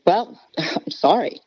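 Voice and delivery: a laugh into a shrugging apology; sheepish laugh. Retold or imitated. Husband laughs off the pastor's rebuke, sheepish laugh. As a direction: laugh it off, sorry-not-sorry. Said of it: "like a guy".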